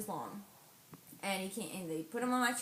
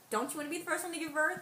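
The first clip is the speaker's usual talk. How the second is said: coaxing; 8 semitones higher, much faster than usual. Retold or imitated. Midwife coaxing her to push.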